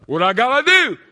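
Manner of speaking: a loud high cry asking "What I gotta do?"; loud plea. Acted. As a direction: call out the question to heaven. Repeated plea, building.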